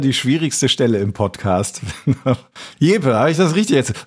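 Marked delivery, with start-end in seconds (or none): 2.8-4.1 lightly voiced host, then a startled higher what; playful take-off of his own flustered moment; imitating host's question. Retelling how the host's question startles him, lightly mimicking. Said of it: "Dann schrecke ich immer kurz auf".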